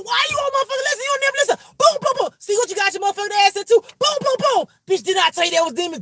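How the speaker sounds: high, loud, rapid-fire scolding yell; cussing fight reenactment. Acted. Reader acting out herself cussing someone out mid-fight, high angry yelling. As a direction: yell it like trading punches, punching out each boom. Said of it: "Y'all ready for the reenactment".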